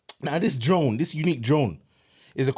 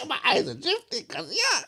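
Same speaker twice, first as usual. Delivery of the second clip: higher voice cracking with laughter; laughing; 13 semitones higher than usual. Real, not acted. Exhausted pitcher still laughing at his own pitch. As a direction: talk through the giggles.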